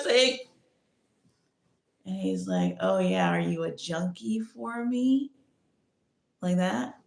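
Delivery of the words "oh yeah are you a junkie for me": slow, emphatic imitation of him; emphatic quote. Mimicking him asking if she is his junkie, slowly emphatic. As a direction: lean on each word slowly. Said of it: "like, emphasis".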